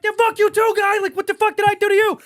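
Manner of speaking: high, loud indignant yell back; re-enacted outburst at a passing heckler; getting mad. Man in line answering bikers who cursed him, mad yelling. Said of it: "I'm getting mad".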